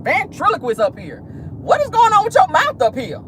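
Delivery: high, put-on mocking voice as if talking out the side of the mouth; mock twisted-mouth voice. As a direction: ham up the ventriloquist mouth.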